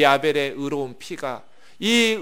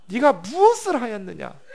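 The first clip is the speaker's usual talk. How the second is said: 무엇을 pushed higher and louder, 네가 무엇을 하였느냐 as an accusation; stern divine confrontation; 5 semitones higher, 4 dB louder than usual. Acted. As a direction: confront him like a judge. God confronting Cain.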